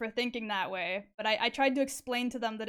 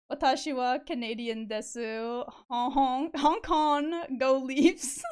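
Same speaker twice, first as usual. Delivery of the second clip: mock Canadian accent; 3 dB louder, slower than usual. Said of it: "Me getting an accent from my first language".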